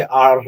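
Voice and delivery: a loud demo of Spanish-style R; imitated Spanish R. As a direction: imitate a Spanish speaker's rolled R. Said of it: "you guys say".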